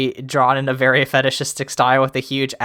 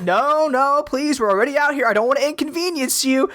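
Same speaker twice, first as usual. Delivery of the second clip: polite axe voice; 10 semitones higher than usual. Retold or imitated. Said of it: "And he's like".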